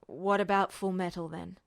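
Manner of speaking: quiet, spent question after the shock. A narrator's reading. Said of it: "he asked finally".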